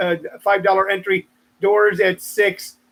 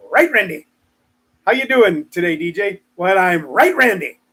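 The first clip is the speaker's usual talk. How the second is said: light mock Irish banter; hint of bad Irish; put-on Irish accent. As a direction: play a chatty Irish exchange. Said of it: "if you say it like that".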